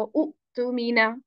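उ तू मीना with short उ and a break before तू; wrong beginner reading. Shown as a demonstration. Teacher mimics a beginner's reading, wrong short-उ pronunciation. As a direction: read उ तू मीना as cut-off उ, then तू मीना. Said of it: "लेकिन ये गलत तरीका है".

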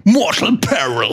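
slow stage announcer. Acted. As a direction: call out the band name. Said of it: "Du bist jetzt schon als Ansager für".

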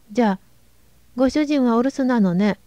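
breathless, panting between words; gasping for air after hurrying; oxygen running out. Acted. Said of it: "喘ぎながら言いました".

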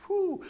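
high whistling whew of relief; comic relieved exhale. Real, not acted. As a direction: blow out a shocked high whew. Reacting to saying "hey, woman.

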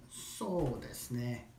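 musing, stretched-out words; drawn out, thinking. Shown as a demonstration. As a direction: hold the "So" long, as if pondering. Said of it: "Draw it out".

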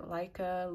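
"Leica" as one way to pronounce it; brand name pronunciation. Shown as a demonstration. Reviewer offering viewers ways to say the brand, pronunciation variant "Leica". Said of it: "different ways of pronouncing it".

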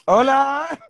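high bright rising hola; playful high greeting; sing-song hello. Real, not acted. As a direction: sing it up into the phone. Phone greeting to mother, sing-song.

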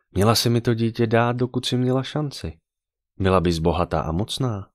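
put-on lightly childish, falsely innocent; childlike voice. Necromancer holding the pregnant woman by the throat, childlike voice. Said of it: "skoro dětským hlasem promluvila".

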